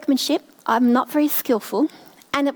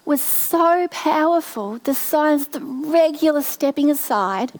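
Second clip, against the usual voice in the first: close to tears; 3 semitones higher, slower than usual. Real, not acted. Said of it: "I'm gonna cry".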